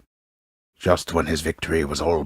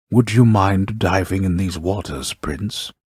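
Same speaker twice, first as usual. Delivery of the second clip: lightly voiced caller, louder and higher; voice from pool; 4 semitones higher, 6 dB louder than usual. A narrator's reading. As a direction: call up to the prince from the pool. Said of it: "from it comes a voice which says".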